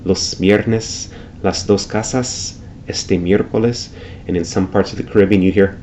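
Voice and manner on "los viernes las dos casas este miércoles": los viernes, las dos casas said with a soft breathy s; every final s in este miércoles kept light and aspirated. Shown as a demonstration. Teacher demoing Mexican Spanish aspirated s. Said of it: "you might hear".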